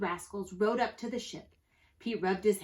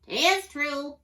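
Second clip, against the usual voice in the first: high, loud bird agreement; parrot squawk; 6 semitones higher, 6 dB louder than usual. A narrator's reading. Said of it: "squawked the bird".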